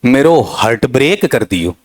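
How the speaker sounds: lightly voiced village dialect, careless stress; a hint of local speech; casual dialect mock; mock rustic Hindi. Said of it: "अब कहीं उच्चारण भी नहीं".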